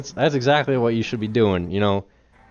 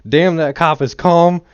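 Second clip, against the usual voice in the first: louder, slow, impressed "damn"; amazed inner reaction; 6 semitones higher, 9 dB louder, slower than usual. Retold or imitated. Host recalling first reaction to clip, drawn-out amazement. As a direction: stretch it out like you can't believe it. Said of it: "My initial reaction".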